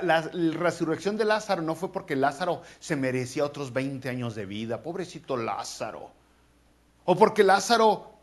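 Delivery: usual speaking voice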